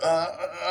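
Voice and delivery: high mock grunts of pain; stabbed groans. Girl being stabbed in the film, mock pained grunts. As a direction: imitate short gasps from someone being stabbed.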